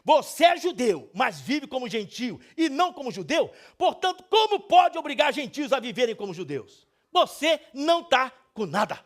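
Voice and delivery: nervous, bold rebuke, high and loud; Paul. Acted. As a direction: confront him publicly so everyone hears. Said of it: "mais ou menos nesse tom".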